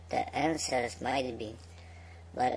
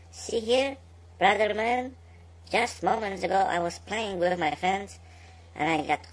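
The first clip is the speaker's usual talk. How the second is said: much higher, pleading fish voice; high little fish voice; 8 semitones higher, 3 dB louder than usual. Acted. Talking fish pleading with the worker, high and urgent. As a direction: squeak it up like a small frightened fish.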